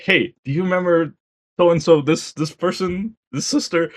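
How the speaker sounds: high-pitched quoted chirp; mock game character. Game character prompting the player's memory, high mock voice. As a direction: voice the game's dialogue up high. Acting out the game's memory dialogue.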